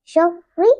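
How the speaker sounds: शर्रि with the r doubled, first part closing शर. Shown as a demonstration. Teacher shows the doubled ra in शर्रि. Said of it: "इसको दो बार पढ़ेंगे".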